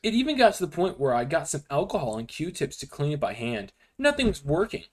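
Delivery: dramatic creepypasta narration; story reading. Acted. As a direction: read it like a spooky story. Reads creepypasta aloud to friends.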